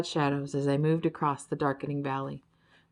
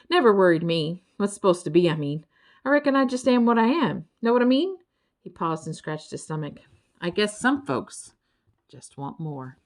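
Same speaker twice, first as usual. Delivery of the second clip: a hint of a lazy country creature, a little louder; 4 dB louder than usual. Lazy Birdle telling the travellers about a snog, folksy. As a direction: play the easygoing Birdle. Birdle explains his contentment.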